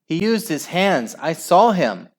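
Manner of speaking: high, outraged protest; howl. A narrator's reading. Father protesting to the referee, howling. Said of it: "howled Al's father".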